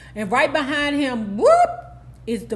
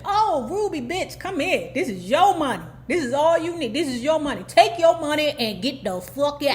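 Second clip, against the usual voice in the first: mock Gerald brush-off; 4 semitones higher than usual. Gerald paying off Ruby.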